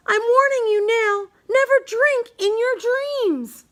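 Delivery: playful cautionary tone; mock-serious warning. A narrator's reading. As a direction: wag a finger at the child as you warn. Narrator warns the child listener.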